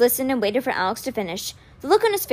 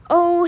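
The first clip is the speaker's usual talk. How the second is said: higher, louder groaned "oh"; 7 semitones higher, 5 dB louder than usual. A narrator's reading. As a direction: groan out in acted dismay. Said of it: "he groaned".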